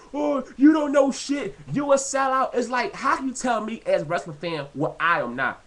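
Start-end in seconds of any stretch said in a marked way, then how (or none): 0.1-2.5 mock shouting fan. Vlogger mocking angry indie fans, a mock shout. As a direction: yell it like a riled-up indie fan. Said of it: "They just".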